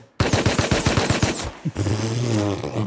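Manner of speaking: long laugh of disbelief; incredulous laugh. Real, not acted. Player watching a cheater, incredulous laugh. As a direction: laugh helplessly at what you see.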